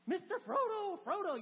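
high, loud call across the water; desperate shout of his name. Retold or imitated. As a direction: call after him as he rows away. Sam calling after Frodo's boat.

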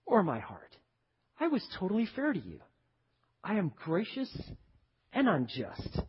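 soft, measured and grave; calm rebuke. Acted. Landowner explaining his generosity to grumbler, calm and soft. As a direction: correct them quietly, with long pauses.

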